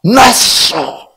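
"Not so" high and loud; exclaimed denial. Shown as a demonstration. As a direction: fire off "Not so" with an exclamation mark. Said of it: "느낌표 붙어 있어". ("Not so"를 느낌표 붙여 크고 높게 외침)

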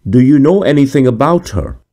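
high, eager question. A narrator's reading. Wolfgang pressing the officer, high and eager. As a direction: lean in, hungry for an answer. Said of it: "said Wolfgang eagerly".

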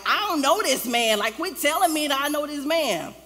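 loud, high-pitched indignant outburst; upset denial. Retold or imitated. Peter cursing and swearing he's no follower, loudly upset. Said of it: "Peter was upset".

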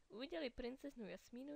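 plain reading voice

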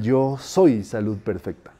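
"yo soy salud perfecta" slow and low, leaning on "soy"; felt intonation. Shown as a demonstration. Teacher wanting them to feel it, low, slow "soy". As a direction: let "soy" sink in slowly. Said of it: "el asunto es la entonación".

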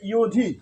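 ইয়োধি said with an opening "i-yo" glide; pronunciation demo. Shown as a demonstration. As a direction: model ইয়োধি as "i-yo-dhi". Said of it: "তাহলে উচ্চারণ হলো". (ইয়োধি স্পষ্ট উচ্চারণে "ই-য়-ধি")

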